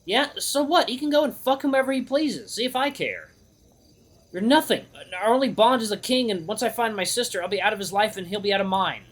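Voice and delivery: high-pitched defiant outburst; upset self-argument. Acted. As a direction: argue yourself out of it, voice pitched high. Hero argues with himself, upset.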